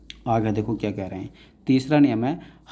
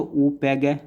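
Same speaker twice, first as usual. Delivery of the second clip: slow spelling out; much slower than usual. Shown as a demonstration. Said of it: "मैं यहाँ मात्रा लगाऊँ".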